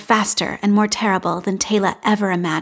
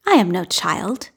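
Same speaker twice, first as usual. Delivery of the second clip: offended dignity. Acted. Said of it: "Tayla tells him with offended dignity".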